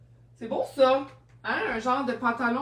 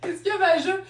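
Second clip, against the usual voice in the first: puzzled question; 7 semitones higher, faster than usual. Retold or imitated. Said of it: "Je dis".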